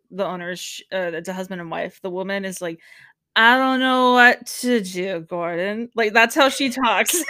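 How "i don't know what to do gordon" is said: slow, louder helpless whine at Gordon; a hint of a drunk, helpless restaurant owner; impression of the owner. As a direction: play a lost Long Island wife, lightly. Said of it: "that's a great impression of her".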